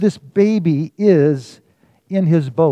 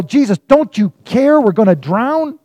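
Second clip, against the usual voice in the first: mock frantic yell; 5 semitones higher, 3 dB louder than usual. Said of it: "and they yell".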